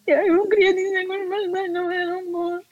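mock tearful plea, high and soft. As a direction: whimper it out near tears. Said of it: "já com aquela lágrima de".

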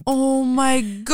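slow, stretched exclamation; drawn-out disbelief. Real, not acted. Friend reacts to the awkward greeting, drawn-out disbelief. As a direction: linger on each word, appalled.

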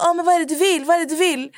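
high, squeaky mock voice of a boy hiding who he is; disguised boy voice. Teen troll answering her call, mocked in a high put-on voice. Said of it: "han gjorde till sin röst".

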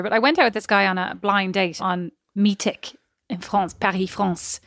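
hammed-up French accent on France. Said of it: "I just have to do that accent".

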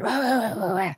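gibberish "wah, wah" of a couple arguing downstairs; imitating a foreign couple's argument as noise; mock quarrel babble. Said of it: "they're always fighting".

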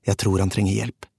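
plain reading voice

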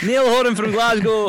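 put-on loud, high-pitched Glasgow accent; drawn-out, exuberant Scottish announcement. Guest showing off to the Scottish host, Glasgow accent. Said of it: "That was a good one".

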